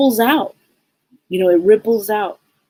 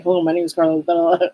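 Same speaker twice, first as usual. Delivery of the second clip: unsmiling, businesslike phone spiel; all business; 2 semitones lower, faster than usual. Acted. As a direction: rattle off the greeting without a smile. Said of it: "It's not a smile".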